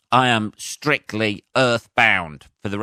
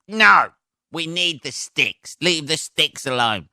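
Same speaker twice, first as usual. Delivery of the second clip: a caveman guarding his sticks, jumping high to refuse; mock caveman refusal; 6 semitones higher, slower than usual. Caveman quarrel about the sticks.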